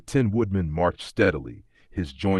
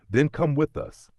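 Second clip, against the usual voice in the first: higher, bright eager call; eager invitation; 9 semitones higher than usual. A narrator's reading. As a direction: jump in keen to have him join. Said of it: "said the Scarecrow eagerly".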